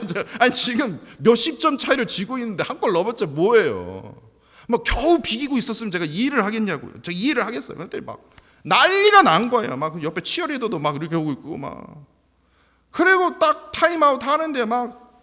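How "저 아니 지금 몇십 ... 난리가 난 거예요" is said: louder, higher, incredulous outburst; 어이없다는 듯 목소리를 높여; exasperated preaching. Acted. Indignant preaching about opponent team. (어이없어하며 크게 외치듯)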